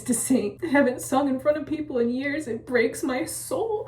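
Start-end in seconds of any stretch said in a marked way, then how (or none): 2.5-3.8 slow heartbroken. Real, not acted. Lamenting lost singing.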